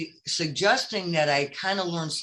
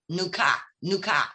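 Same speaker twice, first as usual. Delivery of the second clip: "New car" repeated with the r dropped, Brooklyn-style; childhood Brooklyn accent. Retold or imitated. Stuck child at show and tell, Brooklyn accent. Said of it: "all I kept saying was".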